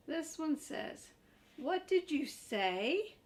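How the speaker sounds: high, slow worried puppet voice; Grover voice. Acted. Grover pleads with the reader, high and anxious. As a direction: play the nervous furry monster.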